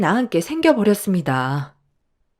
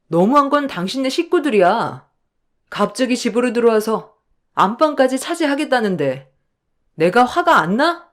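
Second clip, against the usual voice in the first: raised, indignant but understated; mild anger; 4 semitones higher than usual. Acted. Wife snaps back at husband, mildly angry. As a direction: push back at him, a touch angry.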